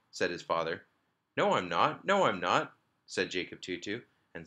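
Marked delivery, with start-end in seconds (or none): 1.4-2.1 put-on protesting little boy. A narrator's reading. Little boy protesting before tears. 2.1-2.8 put-on protesting little boy. A narrator's reading.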